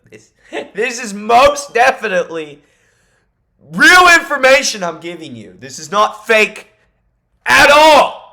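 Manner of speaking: loud, high, laughing protest; laughing insistence. Real, not acted. Vlogger laughing as he insists to viewers his info is real. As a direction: laugh while swearing it's real, slowing on not fake.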